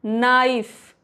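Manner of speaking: "नाइफ" starting straight on N, no K; silent K. Shown as a demonstration. Teacher giving an example of silent K, "नाइफ" without K. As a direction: say "नाइफ" with the K dropped. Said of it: "तो के नहीं पढ़ेंगे".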